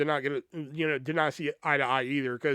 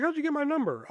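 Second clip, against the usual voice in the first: lightly voiced girlfriend, pitched up; a hint of her suspicious voice; imitating Tatiana, higher; 11 semitones higher than usual. The speaker imitates Tatiana asking how he got her number, pitched higher. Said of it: "And she was like".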